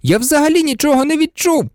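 high, elated cry; excited exclamation. A narrator's reading. Harry reporting to Professor Lupin, exclaiming excitedly. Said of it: "збуджено вигукнув Гаррі".

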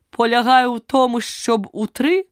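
"у три" broken off mid-word; abruptly cut off. A narrator's reading. Knight lectures on riding and falls at "три", cut off. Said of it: "мова його урвалася так само зненацька".

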